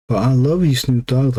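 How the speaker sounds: put-on girlfriend pleading. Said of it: "She goes like".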